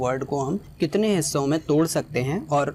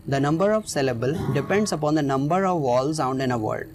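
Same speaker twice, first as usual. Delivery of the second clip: slow reading; much slower than usual. Shown as a demonstration. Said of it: "teacher reads definition aloud".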